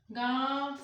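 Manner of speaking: "गांव" with the mouth opened wide; open-mouthed nasal vowel. Shown as a demonstration. Teacher confirms mouth shape for students, wide "गांव". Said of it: "मुख को बड़ा करना पड़ रहा है ना".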